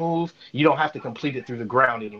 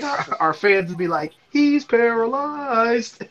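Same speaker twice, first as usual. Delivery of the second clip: high, laughing retelling of Patrice; giggling through the quote; a hint of Patrice, cracking up; 10 semitones higher, 4 dB louder, slower than usual. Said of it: "He's like".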